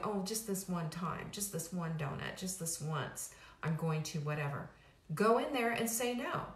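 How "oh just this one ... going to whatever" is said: low, soft, half-hearted bargaining with yourself; mumbly little self-excuse, voice dropped; pitiful self-excusing. Acted. Dieter caving in to one donut, pitiful self-excusing. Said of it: "your own pitifulness of going".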